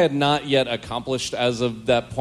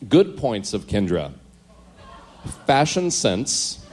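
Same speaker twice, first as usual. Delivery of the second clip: deliberate list read-out, pausing after each item; diary list reading; slower than usual. Acted. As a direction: announce each point like an official report.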